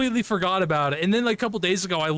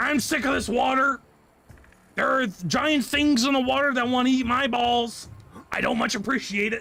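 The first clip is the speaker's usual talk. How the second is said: creature voice, pitched higher; 5 semitones higher than usual. Voicing a creature in the game trying to evolve out of water: voicing a game creature's thoughts. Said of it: "That's how he sounds".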